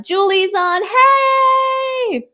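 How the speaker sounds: high hello to a viewer; excited greeting. Real, not acted. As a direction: greet Julie brightly.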